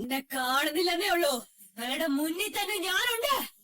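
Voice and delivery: lightly voiced lurking ghost; haunt them with a mock-spooky warning; play-acted spirit menace; pretend ghost. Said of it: "ഞാൻ അവരെ പേടിപ്പിച്ചിരിക്കും".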